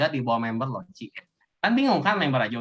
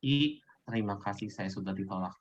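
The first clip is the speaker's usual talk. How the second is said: low, soft, defeated little goodbye; mock-meek thanks, voice dropped; meek rejected recruiter; 6 semitones lower, 6 dB quieter than usual. Shown as a demonstration. Trainer mimics a recruiter thanking someone for rejection, meek and soft. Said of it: "Jangan kayak tadi".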